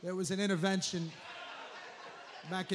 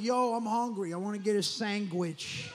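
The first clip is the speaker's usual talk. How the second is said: mock Italian-American. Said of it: "he speaks Italian".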